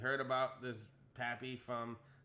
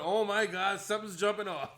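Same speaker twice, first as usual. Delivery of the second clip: nervous friend; 6 semitones higher, 7 dB louder than usual. Retold or imitated. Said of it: "T Murder is just sitting there going".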